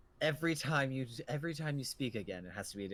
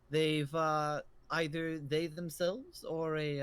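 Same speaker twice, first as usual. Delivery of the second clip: put-on old innkeeper; 2 semitones higher, slower than usual. Innkeeper explains tieflings.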